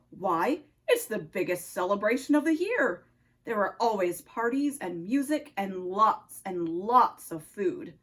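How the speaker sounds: put-on low-pitched Russian-accented nutcracker; deep Russian accent, a sentry's challenge. Nutcracker questions Oscar on the tree, low Russian accent. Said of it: "spoke in a Russian accent".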